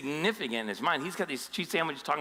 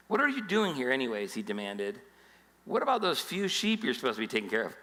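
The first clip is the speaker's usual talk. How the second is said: a touch of big-brother scorn; older brother sneering mildly at David; condescending. Retold or imitated. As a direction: talk down to the kid brother. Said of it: "you see the condescending s-, sound of that".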